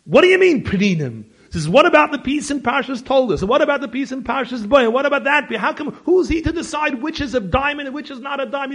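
loud, high, heated complaint; furious protest. Retold or imitated. Upset friend on the phone about the book, furious loud protest. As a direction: fire off the objections one after another. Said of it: "He's all upset".

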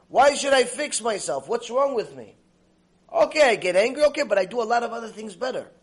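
high, insistent defensive protest; playing someone who won't admit fault; acted self-justification. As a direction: argue back in mock indignation.

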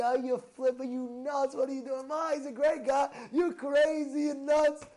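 high, loud mock scolding mother; mother yelling her son is nuts. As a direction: berate him like an upset mom. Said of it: "My mother brought me to the".

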